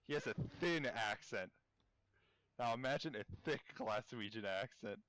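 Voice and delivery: emphatic weight on "thin" and "thick"; contrastive stress. Real, not acted. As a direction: lean hard on "thin", then on "thick".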